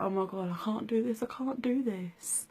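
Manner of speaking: rising into a frightened whisper; re-live the panic, breath dropping out; panicked whisper. Retold or imitated. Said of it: "and I was like".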